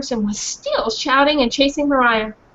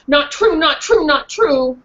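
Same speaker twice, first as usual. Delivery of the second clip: dog protesting; 3 semitones higher, 4 dB louder, slower than usual. Acted.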